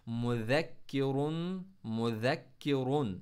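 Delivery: मुज़क्किरुन slow, the ज़ soft; soft dhal. Shown as a demonstration. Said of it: "दाल को soft पढ़ा हमने". (मुज़क्किरुन में ज़ाल सॉफ्ट)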